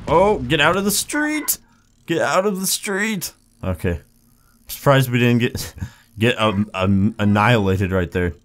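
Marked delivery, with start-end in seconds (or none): 0.1-3.3 high, drawn-out warning call; urgent calling out. Real, not acted. Player telling others to leave the street, urgent call. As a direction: call out high and slow to clear the way.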